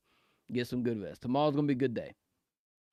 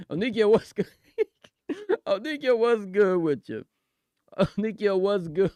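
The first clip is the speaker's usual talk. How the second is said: excited greeting; 5 semitones higher, 6 dB louder than usual. Real, not acted. Loud greeting to the caller.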